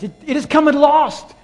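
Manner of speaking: high, ringing proclamation; forceful shouted scripture, easing slightly toward the end; loud voice from heaven. Acted. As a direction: proclaim it loudly across the heavens. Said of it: "he hears this loud voice".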